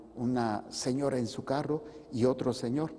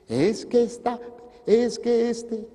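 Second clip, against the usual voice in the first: high, loud whiny excuse-making; mocking imitation of a fault-finder; mimicked complaining; 9 semitones higher, 5 dB louder, slower than usual.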